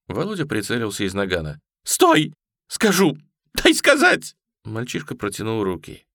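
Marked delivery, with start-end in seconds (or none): 1.8-4.3 high, loud desperate cry; panicked shout. A narrator's reading. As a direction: scream to stop the shot. Boy about to be shot. (отчаянно кричит высоко)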